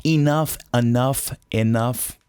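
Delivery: "Enough" three ways, first vowel varied; accepted pronunciations. Shown as a demonstration. Teacher showing students that all these pronunciations are right, varied pronunciations. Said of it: "essas pronúncias todas estão certas".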